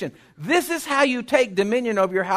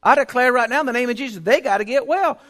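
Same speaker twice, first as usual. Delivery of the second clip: declaring prayer; 3 semitones higher than usual. Retold or imitated. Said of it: "I'd walk to the house and say".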